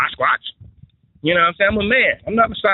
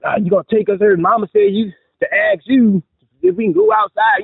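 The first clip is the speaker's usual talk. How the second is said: put-on pestering kid voice; 6 semitones higher than usual. Kids pestering dad.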